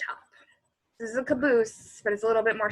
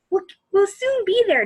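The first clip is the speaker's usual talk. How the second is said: higher, louder call back; raised reassuring shout; 11 semitones higher, 10 dB louder than usual. Acted. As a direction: shout back through the woods. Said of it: "Jessie shouted back".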